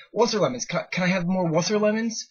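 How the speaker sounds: put-on high, eager small boy asking; little kid voice. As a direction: ask sweetly like a four-year-old. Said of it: "This is what he's saying".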